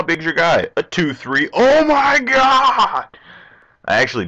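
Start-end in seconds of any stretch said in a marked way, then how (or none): 1.5-3.1 high, drawn-out stunned cry; slow, squealing oh my god; shocked. Real, not acted. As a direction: gasp it out in disbelief. Shocked at opponent's card.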